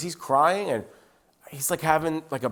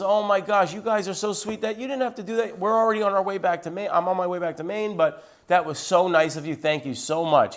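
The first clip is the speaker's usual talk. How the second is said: higher-pitched, mildly hammed-up gratitude; gushing thanks; 5 semitones higher than usual. Pastor politely thanks the couple on speakerphone, gushing. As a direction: imitate an overly grateful phone reply.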